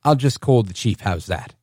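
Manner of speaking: imitated British threat, dropping low at the end; mock British accent. Imitating the candidate threatening the officer, mock British accent. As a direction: imitate a British driver pulling rank. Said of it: "he's got this heavy British accent".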